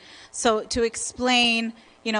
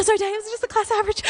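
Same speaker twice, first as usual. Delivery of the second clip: fast, high, giggly sorry to dad; laughing apology; 12 semitones higher, much faster than usual. Retold or imitated. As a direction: blurt it out laughing, embarrassed. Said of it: "I go".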